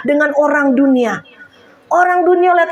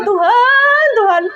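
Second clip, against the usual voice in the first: retold crying out; 6 semitones higher than usual. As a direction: cry out to God for money, much higher. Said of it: "saya sampai ngejerit sama Tuhan".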